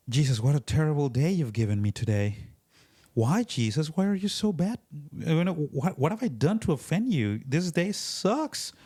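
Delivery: mock-aggrieved pleading, pitch climbing; whiny mock complaint. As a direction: whine it like a put-upon believer. Mock complaint prayer to Jesus.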